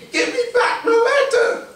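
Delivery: high, loud, laughing cry. Acted. Harry yells at the fleeing fox, high and loud. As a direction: yell after the thief, half laughing.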